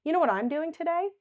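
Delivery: soothe, then brighten; validating. Shown as a demonstration. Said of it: "So validating".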